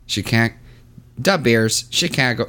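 trying out a Chicago accent. Shown as a demonstration. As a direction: say it like a Chicago local. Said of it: "Can you do a Chicago accent?".

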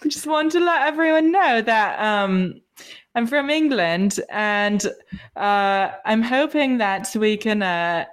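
self-conscious attempt at sounding British; British accent. Shown as a demonstration. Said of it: "put on a British accent while you talk".

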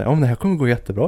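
lightly mimicked cheery reassurance, fast; a hint of can-do cheer; upbeat reassurance. Describing the mascot's cheerful presenting style, mock upbeat. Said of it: "glad person som får det att känna sig".

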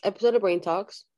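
talking around an ice cube; words round a cube of ice; ice in mouth. Real, not acted. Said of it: "because I have ice cube in my mouth".

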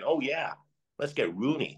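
a light, offhand hint of an American owner's accent; mock American accent. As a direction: toss it off in a faint American accent, mocking the owners. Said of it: "do that accent again".

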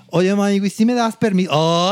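lightly acted, high-pitched asking; imitated girlfriend. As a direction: imitate a passenger asking to get by. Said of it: "llega la pareja de Norma y así de".

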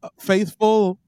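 lightly booming jolly king, slow; a hint of royal proclamation; warm regal boom. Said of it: "jolly old King Winchellus".

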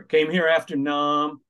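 put-on slow light New York accent. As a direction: drawl it like a New York cabbie. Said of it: "He had a heavy New York accent".

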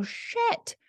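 high, quick flustered admission; caught-out parent. Retold or imitated. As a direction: blurt the apology like a parent catching themselves. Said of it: "you go".

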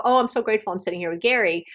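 fast, rattled off without feeling; rushed rote gratitude. Shown as a demonstration. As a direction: toss it off as a habit. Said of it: "I don't go".

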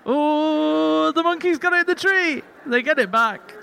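high, excited storyteller voice; storybook voice. Retold or imitated. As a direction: read it like a silly kids' book. Mock children's story climax.

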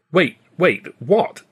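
a stunned double take; astonished. Acted. Stan hearing Babe made the comedies, astonished.

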